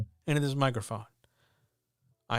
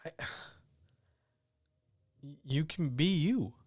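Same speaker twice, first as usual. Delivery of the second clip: whisper; 4 dB quieter than usual. Real, not acted. Sighing, whispered encouragement.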